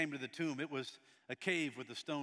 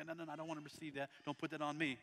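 mock refusal; 5 dB quieter, faster than usual. Acting someone refusing a prophetic word.

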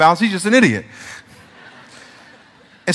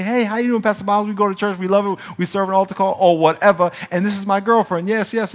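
imitating a churchgoer; 4 semitones higher than usual. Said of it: "people come up to me and say".

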